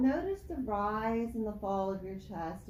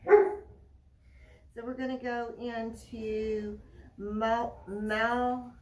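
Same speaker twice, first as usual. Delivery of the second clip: raised voice; 3 semitones higher, 10 dB louder than usual. Real, not acted. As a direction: push the voice over the noise. Teaching over lawnmower noise.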